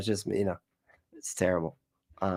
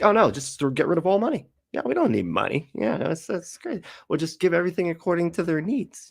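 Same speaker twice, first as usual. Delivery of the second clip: higher, mock-cheerful dreamer; mocking communist voice; 9 semitones higher than usual. Mocking a communist friend in a lighter, higher voice. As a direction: parody them as naive and chipper.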